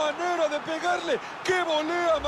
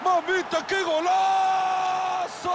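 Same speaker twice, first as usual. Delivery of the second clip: breakneck goal commentary; 3 semitones higher, slower than usual. Acted. Goal call in match commentary.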